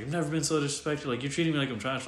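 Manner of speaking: mock-offended retelling; retold indignation. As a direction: quote his wounded complaint lightly. Retelling an aggrieved man's complaint.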